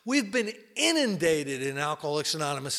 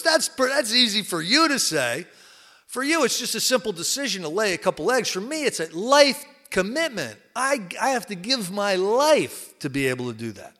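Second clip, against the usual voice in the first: louder, higher pig protesting; indignant pig; 4 semitones higher, 5 dB louder than usual. Acted. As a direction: pig objecting to the chicken's plan. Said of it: "the pig looks down at the chicken and he goes".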